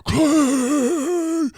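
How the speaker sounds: high, loud corporate hype announcing the new guy; over-the-top Wolf of Wall Street welcome; hyped-up welcome. Retold or imitated. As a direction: pump up the room like a sales boss. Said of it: "trying to do all that type of energy".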